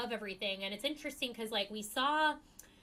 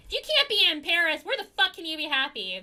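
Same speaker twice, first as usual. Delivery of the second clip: bored socialite whine; 9 semitones higher, 11 dB louder than usual. Retold or imitated. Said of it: "She's like".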